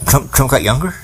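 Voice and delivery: Trump got younger? rising at the end in disbelief; incredulous question. Real, not acted. Questioning the audience about Trump, in disbelief. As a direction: ask it like you can't believe it.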